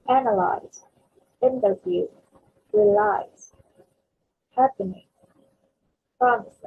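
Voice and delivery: analyze, interview, realize, happening, promise, each hit at the start; first-syllable stress. Shown as a demonstration. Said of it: "we're stressing on the first syllable".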